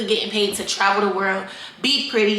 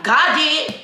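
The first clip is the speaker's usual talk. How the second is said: hype answer; 6 semitones higher, 3 dB louder than usual. Acted. Answering imagined questions, hype chant.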